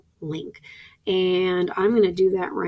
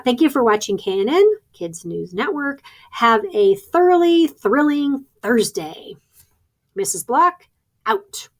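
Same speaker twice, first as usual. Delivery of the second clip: higher, lively school news sign-off; announcer sign-off; 3 semitones higher, 3 dB louder than usual. Shown as a demonstration. Teacher demonstrates signing off Kids News Network, announcer sign-off. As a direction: draw out the closing phrases like a news presenter. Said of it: "and I say".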